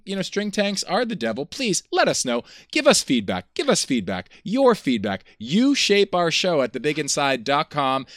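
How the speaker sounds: loud pushy pitchman read; hard sell ad. Acted. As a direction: sell it like a used car salesman. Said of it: "You're sounding like a used car salesman".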